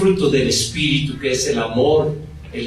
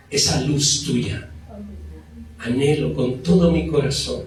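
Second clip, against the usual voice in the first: soft, sincere plea to God; a gentle prayer voice; heartfelt prayer; 3 semitones lower, 4 dB quieter than usual. Shown as a demonstration. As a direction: pray it quietly from the heart. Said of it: "debemos aclamarle a Dios y decirle".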